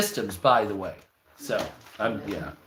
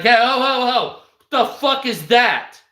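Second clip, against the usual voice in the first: Noah; 7 semitones higher, 3 dB louder than usual. Retold or imitated. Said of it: "Noah's like".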